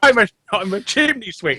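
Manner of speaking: mock cockney chimney sweep; lightly put-on cockney; a film chimney sweep's cockney. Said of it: "everybody talks like a cockney".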